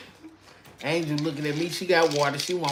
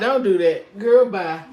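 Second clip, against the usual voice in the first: louder mock-stern dismissal; loud playful scold; 7 dB louder than usual. Real, not acted. To her mama teasing about the TV, loud playful scold.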